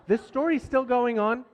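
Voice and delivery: weary resignation. Shown as a demonstration. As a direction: sigh it out as a worn-out dad. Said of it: "that's how I was feeling".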